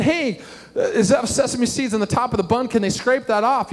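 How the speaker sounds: put-on high-pitched kid calling from behind; imitated kid. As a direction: mimic a child piping up with a request. Imitates kid changing food order.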